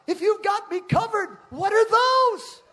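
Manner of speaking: startled at the water spouts; alarmed question to God. Retold or imitated. Preacher retelling seeing tornadoes over the lake, high alarmed cry. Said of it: "I said".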